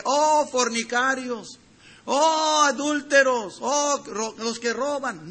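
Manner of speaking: mock cry of oh with a slow, drawn start; mock wailing lament. Preacher mocking a lament Jesus never made, hammed-up wailing. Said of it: "Él nunca estuvo llorando sobre".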